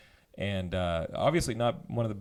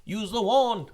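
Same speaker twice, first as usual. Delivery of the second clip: Willow movie quote; 9 semitones higher, 4 dB louder, slower than usual. Retold or imitated.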